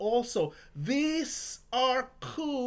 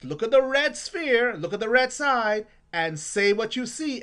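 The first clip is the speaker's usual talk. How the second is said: louder coach instruction to a student; coaching call; 4 dB louder than usual. Shown as a demonstration. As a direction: call it across the yard. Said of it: "I would just say".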